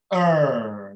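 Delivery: "Er" as one long r-coloured vowel; American er. Shown as a demonstration. Teacher imitating an American speaker, long rhotic "Er". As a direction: draw out "Er" with the American r. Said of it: "parece mesmo um, um americano a falar".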